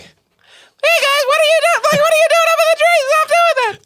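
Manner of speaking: very high, squeaky, fast farmer voice; shrill hammed-up farmer yelling up at the trees. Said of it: "Do his voice".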